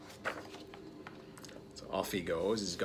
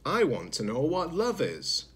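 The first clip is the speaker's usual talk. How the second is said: higher, earnest little robot; eager young robot; 6 semitones higher than usual. Acted. Zed explaining his quest, higher and earnest. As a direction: say it up high and hopeful. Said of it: "explained Zed".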